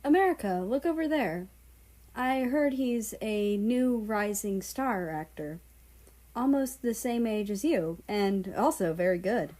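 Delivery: high, bright, eager voice; a friend nudging America to look, excited; excited friend China. Acted. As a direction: point out the star with lively excitement.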